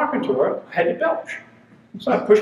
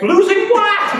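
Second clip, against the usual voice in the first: high, loud, outraged demand; mock indignant shout; 6 dB louder, slower than usual. Husband snapping back at his wife, mock outrage. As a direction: throw the question back hard. Retold hearing-loss argument with wife.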